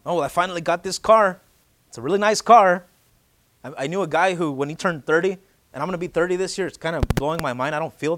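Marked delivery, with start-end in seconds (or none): 0.0-2.8 lightly hammed-up pride over a new car; proud mock gush. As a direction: gush about the car, a bit louder. Mocking a proud car owner.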